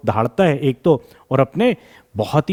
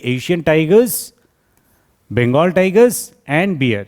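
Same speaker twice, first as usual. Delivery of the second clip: slow, spaced-out teacher dictation; 2 semitones higher, much slower than usual. Shown as a demonstration. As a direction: read each phrase slowly for students to copy. Dictates the answer to students. (शिक्षक का धीमा श्रुतलेख)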